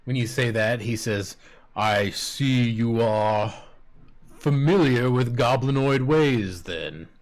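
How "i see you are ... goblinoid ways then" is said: goblin chief. Acted. GM voices goblin leader.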